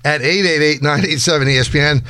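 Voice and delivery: upbeat live promo read; radio contest promo. Acted. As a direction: read it like an on-air giveaway.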